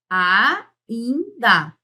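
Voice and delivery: "ainda" very slow as a, in, da; teacher sounding out "ainda" syllable by syllable; separated syllables. Shown as a demonstration. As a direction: break "ainda" into three held pieces with pauses. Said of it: "Eu separo".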